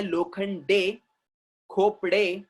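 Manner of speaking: लोखंडे, खोपड़े with the final "day" sounded; खोपड़े and लोखंडे ending in a clear "ay"; correct surname pronunciation. Shown as a demonstration. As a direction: say लोखंडे, खोपड़े with each last e voiced. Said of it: "उसको आपको बोलना है".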